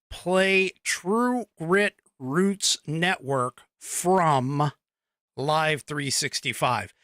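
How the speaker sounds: slow, deliberate voice command; slow spoken command. Shown as a demonstration. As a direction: say it slowly so Alexa catches it. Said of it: "you have to say".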